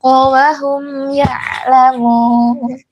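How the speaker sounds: slow, melodic Quran chanting; Quran recitation. Acted. Teacher reciting the verse for the mothers to follow, slow and melodic.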